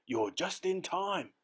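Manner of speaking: high, slow eager call; excited shout. A narrator's reading. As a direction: call out the good news. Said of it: "shouted Grandpa Joe".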